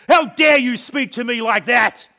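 loud, high shout of wounded royal pride; outraged cry. A narrator's reading. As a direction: roar it at the one who dared. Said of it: "I cried".

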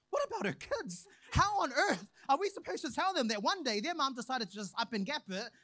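mock frantic worry; high panicked fretting. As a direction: fret like everything's falling apart. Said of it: "I was like".

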